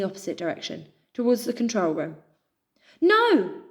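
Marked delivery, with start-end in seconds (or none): 3.0-3.6 high, loud horrified cry; desperate no. A narrator's reading. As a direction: scream in horror. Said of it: "Pip cried".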